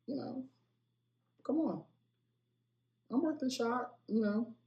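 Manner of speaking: high-pitched coaxing; mock begging for a part, voice way up; playful pleading. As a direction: plead your case in a small, high voice. Jokingly pitching self for film role.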